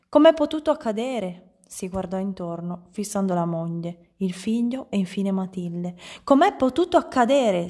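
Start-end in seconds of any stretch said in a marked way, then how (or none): 0.1-1.5 high, loud incredulous cry; shriek of dismay. A narrator's reading. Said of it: "strillò di nuovo". 6.2-7.7 high, loud, insistent question; shriek of dismay. A narrator's reading. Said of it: "strillò di nuovo".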